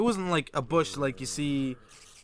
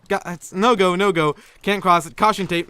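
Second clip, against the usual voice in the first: raised, loud comic warning; mock alarm; 4 semitones higher, 6 dB louder than usual. Acting a passer-by refusing to cross the smelly bush, mock alarm. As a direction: warn everyone off in hammed-up alarm.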